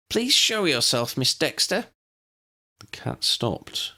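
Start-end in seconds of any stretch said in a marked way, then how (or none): 0.1-1.9 higher, firm commanding call; calm but powerful. A narrator's reading. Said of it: "in a calm but powerful voice".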